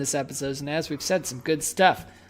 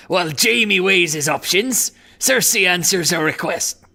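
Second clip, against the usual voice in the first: pirate voice; 4 dB louder than usual. Acted. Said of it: "It's just a pirate voice".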